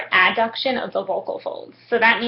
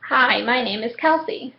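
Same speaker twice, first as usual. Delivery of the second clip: speaking on exhalation. Shown as a demonstration. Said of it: "I'm gonna show you first".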